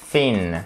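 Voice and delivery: "thin" with tongue between the teeth for th; soft TH. Shown as a demonstration. Teacher demonstrating "thin" with a soft TH. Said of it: "C'est un soft T H".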